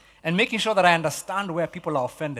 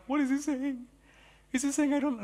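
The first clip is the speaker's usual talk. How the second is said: higher, anxious, half-choked question; hurt Peter; 8 semitones higher, 5 dB quieter than usual. Retold or imitated. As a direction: ask it like a wounded disciple. Peter hurt, almost crying.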